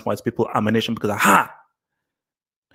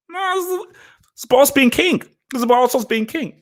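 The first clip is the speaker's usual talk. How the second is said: mock insecure white guy; 13 semitones higher than usual. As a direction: squeak it out as a smug mock bigot. Voicing insecure white people.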